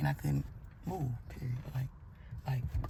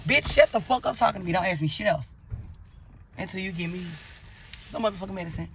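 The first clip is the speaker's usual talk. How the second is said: louder and higher, yelling through the pain; angry yell; 3 semitones higher, 4 dB louder than usual. Retold or imitated. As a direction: bark at the nurse to stop asking. Cursing out the doctor in pain.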